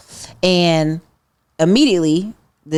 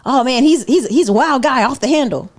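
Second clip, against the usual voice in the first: higher-pitched, mock-admiring chatter; indulgent admiration; 5 semitones higher than usual. People talking about an Asian friend, indulgently amused. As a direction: play people happily excusing their wild friend.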